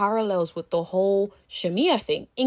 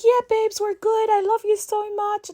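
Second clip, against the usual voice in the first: much higher, sugary "all good" voice; fake sweet friend; 12 semitones higher than usual. Imitating her ex-best friend's syrupy reassurance on the phone. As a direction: play it way too sweet, like nothing's wrong. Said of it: "And then she's like".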